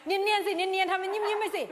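high, loud teasing voice; egging someone on to play it cool; playful coaxing voice; mock urging. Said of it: "น้องทำหน้าแบบ".

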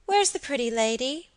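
put-on high child's question; abrupt little boy. A narrator's reading. Boy abruptly questions the visitor, high childish voice. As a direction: ask suddenly in a small boy's voice. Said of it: "he said abruptly".

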